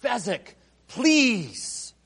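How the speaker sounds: a light pleading Inigo, rising high on please. Retold or imitated. Inigo begs Fezzik for help, lightly pleading. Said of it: "turns to Fezzik and pleads".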